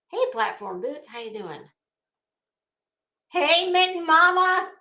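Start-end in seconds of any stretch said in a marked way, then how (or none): 3.3-4.7 louder, higher, delighted hello; light up as you call her name; a happy shout-out to a chat regular; excited greeting. Real, not acted.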